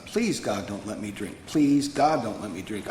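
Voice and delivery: retold desperate plea, leaning on "Please"; understated begging prayer; begging God. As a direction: plead it, each "Please, God" punched then dropping away. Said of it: "begging God".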